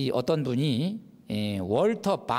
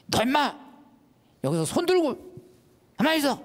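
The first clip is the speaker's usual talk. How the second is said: father's shout; 13 semitones higher, faster than usual. Retold or imitated. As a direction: yell at the boy to stay put. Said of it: "소리는 질렀는데". (아들을 꾸짖는 아버지의 높은 고함)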